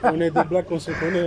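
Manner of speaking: chuckling, caught out; laughing. Real, not acted. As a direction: defend yourself through a laugh. Caught looking at a woman.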